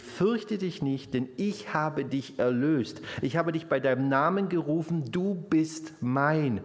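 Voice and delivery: slow, lifted Bible reading; scripture recited. Acted. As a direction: proclaim God's promise slowly. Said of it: "in Jesaja dreiundvierzig steht".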